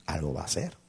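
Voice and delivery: soft inward musing; to himself. Retold or imitated. Pastor thinking that God will act, softly to himself. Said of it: "Y yo dije entre mí".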